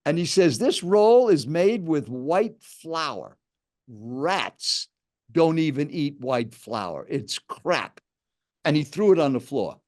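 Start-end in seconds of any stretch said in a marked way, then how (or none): 0.6-8.0 retold food lecture, slow and emphatic; slow, pointed condemnation; aggressive. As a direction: imitate an aggressive stranger, drawing out the words. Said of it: "kind of an aggressive tone".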